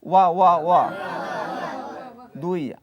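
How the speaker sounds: loud, clipped syllable drill; loud drilled letter sounds. Shown as a demonstration. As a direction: call out each syllable clearly for the class. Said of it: "সবাই বলুন".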